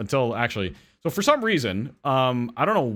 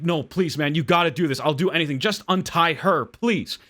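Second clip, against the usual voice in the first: pleading; 5 semitones higher than usual. Acted. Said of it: "the man keeps pleading".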